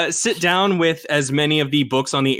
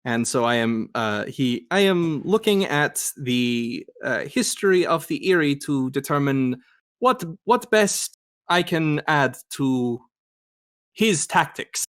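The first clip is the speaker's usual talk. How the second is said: put-on German Shepherd's German accent. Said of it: "trying to speak as this character".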